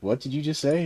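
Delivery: lightly mocked bewildered question; puzzled outsider. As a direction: imitate someone baffled by an accent. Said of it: "looks at me funny".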